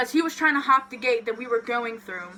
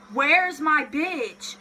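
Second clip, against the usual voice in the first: slow, higher, drawn-out call; 4 semitones higher, much slower than usual. Retold or imitated. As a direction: call out for a missing friend. Calling out for missing friend.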